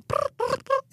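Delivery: high trilled cricket chirp; sister-in-law's attempt at a chirp; imitated cricket noise. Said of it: "she tries to make the noise".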